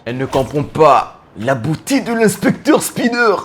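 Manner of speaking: slow, grave mock narration; hammed-up noir narrator, drawn out. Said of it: "Vous faites une voix de narrateur?".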